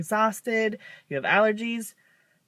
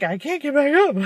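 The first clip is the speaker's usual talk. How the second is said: put-on higher, louder, helpless old-lady voice; mock helpless; 8 semitones higher, 5 dB louder than usual. To her mom, a mock helpless groan of being stuck. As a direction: whine it like you're stuck on the floor. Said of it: "But then I'm like".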